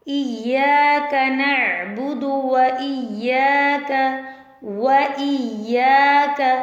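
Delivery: slow, drawn-out Quran recitation. Shown as a demonstration. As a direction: chant it slowly, word by word. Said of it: "सूरतुल फातिहा की आयत number चार".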